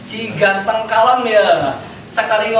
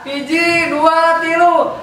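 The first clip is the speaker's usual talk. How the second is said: slow countdown; 7 semitones higher, slower than usual. Real, not acted. Counting down to crocodile sounds.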